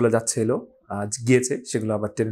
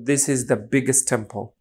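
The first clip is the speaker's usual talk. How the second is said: slow example reading; much slower than usual. Shown as a demonstration. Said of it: "sentence সহকারে পড়ি".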